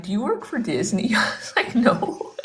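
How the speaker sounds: laughing. Real, not acted. Laughs while retelling exchange.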